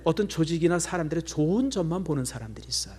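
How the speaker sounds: hushed, whispered teaching point. Real, not acted. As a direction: draw them in with a whisper. Intimate point in sermon. (조용히 속삭이며 가르치듯)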